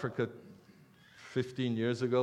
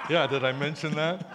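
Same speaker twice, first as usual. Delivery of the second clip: laughing admission. Real, not acted.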